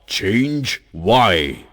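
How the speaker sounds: short, loud, indignant questions; angry Mountain. Acted. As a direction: snap back at the cheeky drop. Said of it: "Mountain gets angry".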